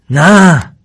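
high, loud cry of refusal; single high shout. A narrator's reading. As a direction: yell it out in protest. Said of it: "داد زد".

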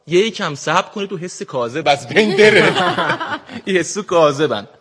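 put-on Shirazi accent. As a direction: speak like a laid-back man from Shiraz. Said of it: "سعی کردم امروز با لهجهٔ شیرازی صحبت کنم". (لهجهٔ شیرازی شل و کشیده)

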